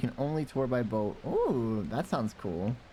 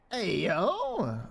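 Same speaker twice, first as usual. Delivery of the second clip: put-on lightly raised little kid voice; preschooler voice; 6 semitones higher than usual. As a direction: play a small kid saying hi. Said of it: "my little kid voice".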